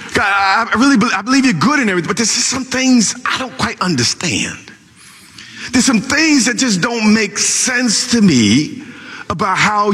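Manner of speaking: a lightly voiced aggrieved prayer; complaint poured out to the Lord; complaining prophet. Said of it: "he began to complain".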